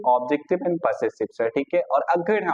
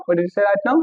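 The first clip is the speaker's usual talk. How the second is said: indignant student; 5 semitones higher, 5 dB louder, slower than usual. Acted. Student interrupting the teacher.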